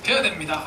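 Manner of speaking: forceful, loud duty tone; insistent must. Shown as a demonstration. Church speaker mimicking a pushy command. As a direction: push the must hard. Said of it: "이렇게".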